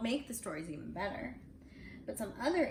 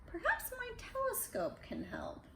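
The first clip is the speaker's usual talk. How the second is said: high scientist voice; 13 semitones higher than usual. A narrator's reading. Voicing scientist with telescope.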